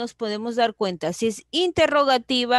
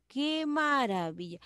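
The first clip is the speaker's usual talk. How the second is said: exclamación suave y aguda; exclamación emocionada; 4 semitones higher, 6 dB quieter than usual. Shown as a demonstration. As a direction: asombro contenido, voz alta de tono pero baja de volumen. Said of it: "expresando una emoción". (exclamación suave de emoción)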